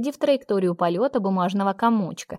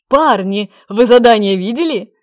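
eager burst-in; 12 dB louder than usual. A narrator's reading. Young man bursting into the room, loud and eager. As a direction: burst in with the big news. Lir bursts in waving envelope.

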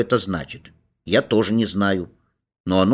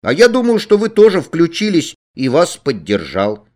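put-on eager boy; 7 semitones higher, 5 dB louder than usual. A narrator's reading. Boy's cheeky excited reply.

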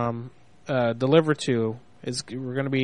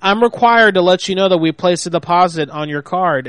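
loud, raised arguing voice; heated shouting; 4 dB louder than usual. Real, not acted. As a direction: argue loudly over her. Manager arguing loudly.

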